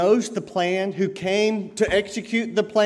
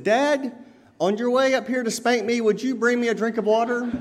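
put-on child's question; 6 semitones higher than usual. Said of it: "the little boy said".

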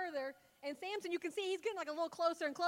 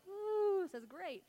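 mock cozy contentment; 3 semitones higher, slower than usual. Frog enjoying nice room temperature water, comfy and contented. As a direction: settle into playful, blissed-out comfort. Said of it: "make him feel all comfy and cozy".

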